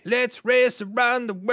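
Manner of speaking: high, loud hype announcer. Acted. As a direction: belt it out like a game-show host. Announcer-style show segment intro.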